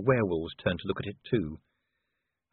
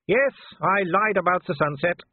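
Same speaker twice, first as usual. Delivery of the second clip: much higher, loud taunting werewolf voice; Wolfgang; 8 semitones higher, 5 dB louder than usual. Acted. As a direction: sneer at the cornered man from below. Wolfgang's voice held.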